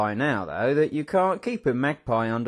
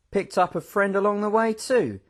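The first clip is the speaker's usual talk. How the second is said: smiling; 7 semitones higher than usual. A narrator's reading. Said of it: "Mister Quilk smiled".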